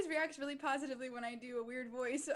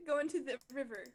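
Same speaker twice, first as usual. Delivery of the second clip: goblin voice. Acted. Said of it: "what's the goblin voice for".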